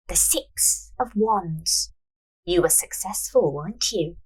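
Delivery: a hint of a knowing seer; mystic fortune teller. Fortune teller reads cards.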